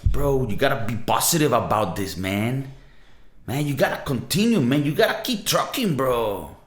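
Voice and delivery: lightly voiced laid-back California bro; a light take on a chill Californian dude cheering you on. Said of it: "some dude, maybe from California telling you this".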